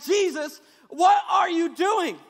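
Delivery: loud, slow panicked cry to Jesus; panicked shout. Retold or imitated. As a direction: yell at the sleeping Jesus in alarm. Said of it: "they're like".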